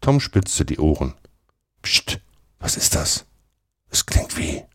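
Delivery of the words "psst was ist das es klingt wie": breath-only whisper, listening out; hushed alert. A narrator's reading. Tom pricks up his ears at noises, whispering. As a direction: hush your friend and whisper.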